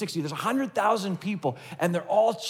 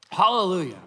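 a louder proclaimed hallelujah; exclaimed hallelujah; 4 dB louder than usual. Retold or imitated. Preacher quoting the heavenly crowd, proclaimed louder. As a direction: lift it as a shout of praise. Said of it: "people shouting".

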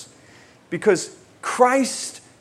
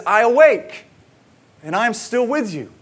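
first words loud and high, then settling; exclaimed verse; 6 semitones higher, 6 dB louder than usual. Retold or imitated. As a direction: read it as a bursting exclamation. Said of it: "Then he says".

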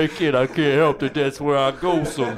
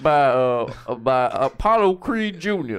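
halting, slurred boxer voice; Rocky. Acted. Host introduces guest on his left, Rocky voice. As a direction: introduce your guest like a punchy fighter. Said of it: "back to sounding like Rocky".

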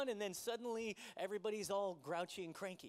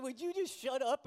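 "Would you just shut up?" louder, with a clipped stress on "just"; loud retold snap; 5 semitones higher, 7 dB louder than usual. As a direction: replay the snap at your son, louder and laughing through it. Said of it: "I said".

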